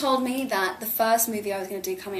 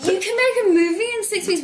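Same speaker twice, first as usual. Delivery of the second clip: much higher and louder, astonished; incredulous; 11 semitones higher, 7 dB louder than usual. Retold or imitated. Actor retelling hearing the short shoot schedule, loud incredulous cry. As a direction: blurt it out in total disbelief. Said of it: "I was like".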